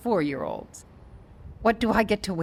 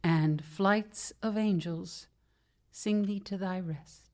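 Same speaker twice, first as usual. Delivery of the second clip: Shakespeare recitation; slower than usual. Acted. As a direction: recite it gently over a deathbed. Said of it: "not the only Shakespeare fan".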